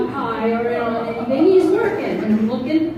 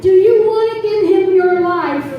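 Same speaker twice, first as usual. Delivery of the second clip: altar call; 2 semitones higher than usual. Acted. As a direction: invite them to the altar. Altar call over piano.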